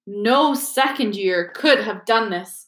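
slow, firm and settled. Acted. Dumbledore defending Harry to Filch, slow and firm. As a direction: lay it down calmly, slowly. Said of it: "said Dumbledore firmly".

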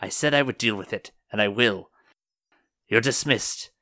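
firm older superior, lightly voiced; older woman. Older woman dismissing Rebecca, firm and lightly voiced. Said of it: "the older woman says".

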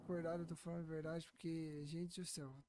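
drowsy, fading voice; barely awake, trailing off; nodding off. Real, not acted. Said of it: "tô morrendo de sono aqui".

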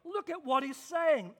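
mildly wowed, pitch lifted; amazed onlookers. Retold or imitated. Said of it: "they were amazed".

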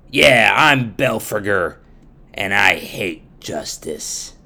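loud scornful villain judge; Belphegor voice. Acted. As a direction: boast like a corrupt judge. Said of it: "let me introduce you to a new character".

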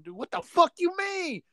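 high-pitched retold disbelief; comic, high outraged bafflement; incredulous. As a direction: squeak out the question in mock shock. Retelling his shocked reply.

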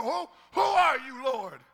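high, loud frantic shout with a stammer. Pretend. Saul groping on the ground, frantic shout.

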